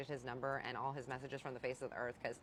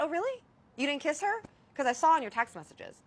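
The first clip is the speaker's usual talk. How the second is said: high, louder sarcastic confronting; mock accusing outburst; 10 semitones higher, 7 dB louder than usual. Wife confronting her cheating husband on the phone, sarcastic and raised. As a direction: throw it back at him, sarcastic and raised.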